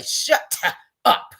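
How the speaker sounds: breathy, almost whispered "Shut up"; weak shut up. Shown as a demonstration. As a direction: toothless "Shut up". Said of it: "You can say".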